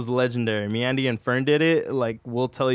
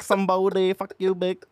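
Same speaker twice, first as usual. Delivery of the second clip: higher, laughing prank caller voice; crank-call guy impression; 5 semitones higher than usual. Friends recalling the YouTube crank caller, laughing impression. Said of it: "that guy on YouTube that did crank calls".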